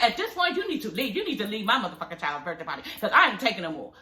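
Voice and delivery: mildly heated, fed-up rant; pretend telling-off. Acting out what she'd tell him, pretend angry telling-off. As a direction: go off on him, half in earnest. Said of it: "I'd have went on his ass".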